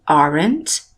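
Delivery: "aren't" with the voice rising through it; "aren't" held up, rising. Shown as a demonstration. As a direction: lift the pitch at the end of "aren't". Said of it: "A minha voz se elevou no verbo".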